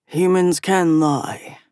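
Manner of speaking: slow, gravelly growl. Acted. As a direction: rasp it out slowly. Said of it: "Essen said in a gravelly voice".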